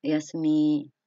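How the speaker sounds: low, drowsy good-night voice; a sleepy murmur of good night. Shown as a demonstration. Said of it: "parang inaantok na yung boses".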